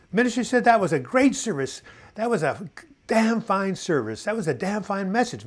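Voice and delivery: booming Texan praise, slowed on damn fine. Retold or imitated. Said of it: "he's a Texan".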